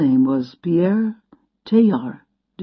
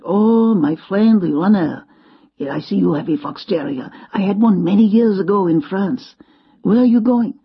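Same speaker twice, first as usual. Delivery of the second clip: lightly voiced old Frenchman; French accent; 3 dB louder than usual. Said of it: "He had a French accent".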